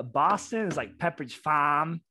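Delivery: rough Boston accent demo; amateur Boston impression. Shown as a demonstration. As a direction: drop the R in a put-on Boston accent. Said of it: "how different is a Boston".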